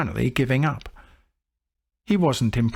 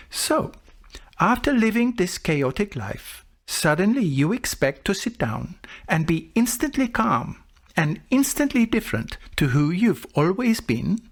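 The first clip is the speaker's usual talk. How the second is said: amused disbelief; 7 semitones higher than usual. Retold or imitated. Monk gently mocks the student.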